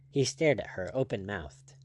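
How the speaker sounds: ordinary delivery, nothing marked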